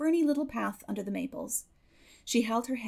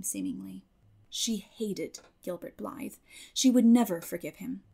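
usual speaking voice

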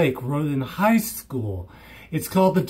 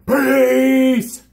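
shouted peace; 5 semitones higher, 4 dB louder than usual. Real, not acted. Shouted sign-off.

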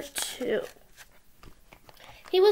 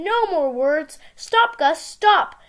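calling out; 3 semitones higher, 5 dB louder, much slower than usual. Acted. Sam shouting at Gus.

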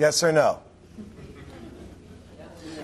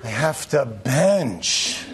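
put-on whiny kid; 6 semitones lower, much slower than usual. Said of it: "They go".

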